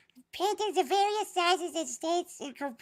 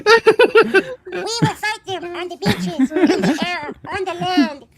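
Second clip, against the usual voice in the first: Churchill impression; 13 dB louder than usual. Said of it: "Do a little Churchill".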